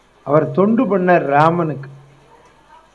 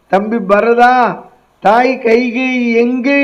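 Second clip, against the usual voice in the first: Rama's question; 5 semitones higher, slower than usual. Acted. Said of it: "என் அண்ணன் ராமன் கேட்பான்".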